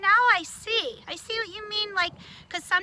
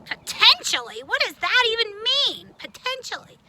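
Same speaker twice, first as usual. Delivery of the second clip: snotty tone; 3 semitones higher, 4 dB louder than usual. Acted. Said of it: "I don't like your tone".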